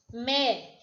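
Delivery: ME said alone, slowly held; separate syllable. Shown as a demonstration. Teacher splitting menina for pupils, syllable by syllable. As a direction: isolate ME as a single syllable. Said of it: "é uma sílaba".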